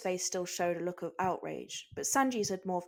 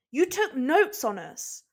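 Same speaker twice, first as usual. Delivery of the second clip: loud, slow, stunned protest; shocked outburst; 6 semitones higher, 6 dB louder, slower than usual. Acted. Crew member yelling at Chopper in shock. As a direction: blurt it out in disbelief.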